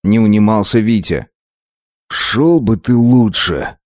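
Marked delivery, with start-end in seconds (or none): 2.1-3.8 quiet threat. Acted. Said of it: "с тихой угрозой сказал я".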